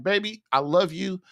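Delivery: low, earnest and conciliatory; loving appeal. Shown as a demonstration. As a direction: reason tenderly with your wife, keeping it low. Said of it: "start it with loving messages like".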